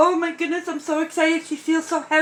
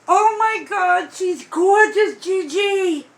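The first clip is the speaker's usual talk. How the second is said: louder, near tears, gushing; thrilled praise for the maker; delighted outburst; 3 semitones higher, 3 dB louder than usual. Real, not acted. Admiring the doll, thanking maker.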